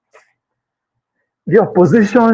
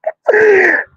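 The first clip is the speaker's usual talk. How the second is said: high laugh; 13 semitones higher than usual. Real, not acted. Laughs at his own retold story.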